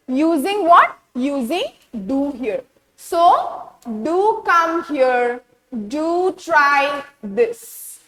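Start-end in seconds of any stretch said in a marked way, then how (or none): 4.0-8.0 "do" drawn out, slow emphatic "do"; emphatic imperative. Shown as a demonstration. Teacher showing students the emphatic imperative, stressed "do". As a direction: stretch "do" slowly for emphasis. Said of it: "This is emphatic imperative".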